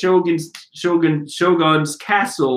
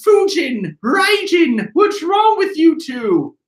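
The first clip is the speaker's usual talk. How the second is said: higher, shouted demand; calling out to ninjas; 12 semitones higher, slower than usual. Acted. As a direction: yell across at the two ninjas. Boss calls to his ninjas.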